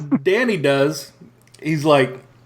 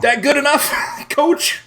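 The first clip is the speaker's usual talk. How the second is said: cocky quip through laughter; 10 semitones higher than usual. Retold or imitated. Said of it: "calls him coach".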